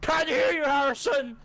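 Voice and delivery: taunting. Pretend. Mock taunting friend.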